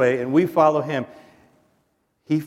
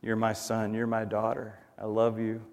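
soft, lowered, tender fatherly voice; voice from heaven; 3 semitones lower, 9 dB quieter than usual. Acted. The Father speaking from heaven to his children, hushed and tender. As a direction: speak gently and quietly, short phrases. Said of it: "you just hear that voice from heaven".

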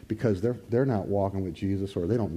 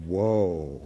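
low, drawn-out whoa of awe; awed whoa; 4 semitones lower than usual. Shown as a demonstration. Showing the congregation how to say it, low awed whoa. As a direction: breathe out a low, amazed whoa. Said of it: "point to yourself and go".

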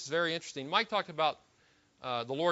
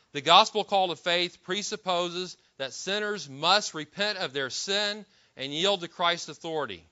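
preacher rereads the quote slowly for the congregation; slow deliberate reread; 2 semitones higher, 4 dB louder, slower than usual. Shown as a demonstration. Slowed, emphatic reading. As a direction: repeat the definition slowly, weighing each word. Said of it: "That's his very brief definition".

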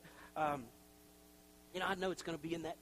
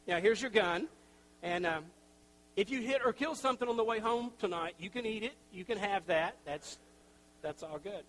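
brash gun clerk; 4 semitones higher, 9 dB louder than usual. Retold or imitated. Gun clerk hands out guns.

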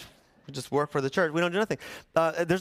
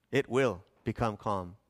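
slow, lower, certain pronouncement; prophetic voice; 4 semitones lower, 3 dB quieter than usual. Shown as a demonstration. Preacher showing Jonah's newfound prophetic voice, slow and low. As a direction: pronounce it like a prophet sure of the outcome. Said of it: "Suddenly he found his prophetic voice".

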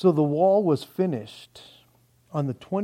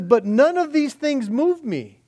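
defiant testimony; 5 semitones higher than usual. Acted. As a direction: declare it unshaken. Paul's defiant reply, preached.

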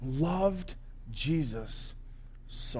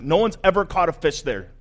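a touch of amazed panic; mildly freaked out, insistent; freaking out; 5 dB louder than usual. Acted. Fisherman to Jesus after the huge catch, mildly freaking out. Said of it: "Peter totally freaks out".

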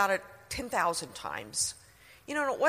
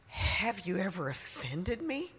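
incredulous echo; 4 dB quieter than usual. Retold or imitated. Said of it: "It was like".

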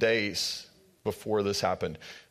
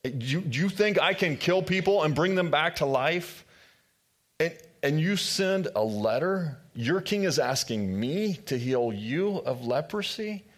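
upset king; 5 semitones higher than usual. Retold or imitated. King of Israel reads letter, upset.

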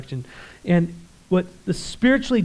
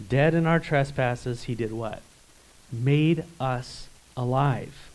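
hushed slow emphasis; 3 semitones lower, slower than usual. Acted. Call-and-response, slow softer.

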